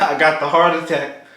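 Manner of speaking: laughing through the words. Real, not acted. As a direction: chuckle while you say it. Joking about his healthy order.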